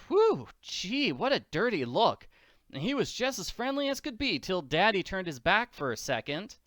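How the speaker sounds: put-on a startled orphan girl; Annie voice.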